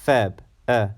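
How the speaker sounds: Feb, then the bare vowel of red; short E sound. Shown as a demonstration. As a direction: isolate the E in Feb. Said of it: "like in the word red".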